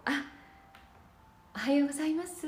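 sugary fake-kind morning hello; fake gentle voice. Shown as a demonstration. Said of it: "なんとなく優しげな感じで、こう".

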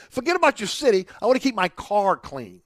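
mock their attitude, a touch emphatic; mock selfish litterer. Host imitating people who dump car trash, mockingly dismissive. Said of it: "here we have the mentality".

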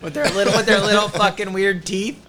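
laughing. Real, not acted. Podcast guest riffing on dolphins' teeth, laughing. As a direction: crack up while riffing.

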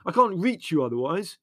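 high, loud, urgent shout. A narrator's reading. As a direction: shout it impatiently. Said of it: "shouted Leslie".

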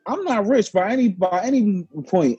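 quoting himself, firm and fed up; firm refusal. Retold or imitated. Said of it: "And I'm like".

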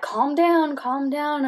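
high, pressing voice, retold; urgent calming. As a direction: retell an insistent attempt to calm someone. Staff trying to calm screaming patient.

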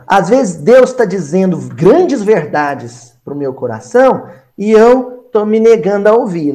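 ordinary talk

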